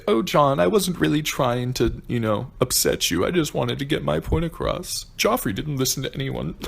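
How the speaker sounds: imitating a meek, sugary Sansa; mock Sansa apology. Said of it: "having her come up to Jon and say".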